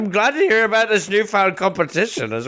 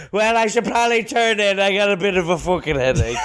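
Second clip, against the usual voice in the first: put-on casual drunk; faster than usual. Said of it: "He'd go".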